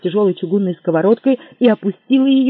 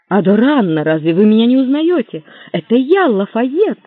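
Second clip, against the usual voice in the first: voice breaking; 4 semitones higher, 6 dB louder than usual. Acted. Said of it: "Голос его сорвался".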